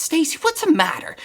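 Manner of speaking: hushed, breathy question with no voice; whisper. Retold or imitated. Trainer whispering to his crying client. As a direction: ask it in a concerned whisper.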